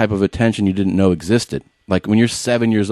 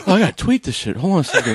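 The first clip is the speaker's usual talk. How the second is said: laughing eagerness; 8 semitones higher, faster than usual. Retold or imitated.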